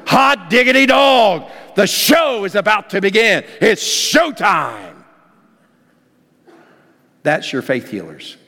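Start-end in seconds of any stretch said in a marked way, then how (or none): 0.1-4.9 excited crowd. Acted. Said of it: "the crowds going".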